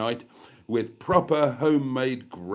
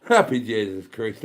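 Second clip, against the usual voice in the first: put-on Irish accent; 4 semitones lower, 5 dB louder than usual. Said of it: "I'm going into a bit of Irish there".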